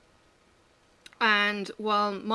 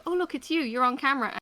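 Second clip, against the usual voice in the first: put-on toddler voice; 5 semitones higher, 3 dB louder than usual. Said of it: "then she'll go".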